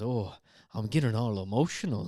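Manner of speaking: loud, booming character voice. Quoting a movie character's line about needing the bathroom: Fat Bastard voice. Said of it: "And then he goes".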